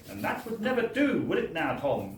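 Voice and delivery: a mild chiding nudge from inside his head; faint voice of reason. Retold or imitated. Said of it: "the faint voice of reason".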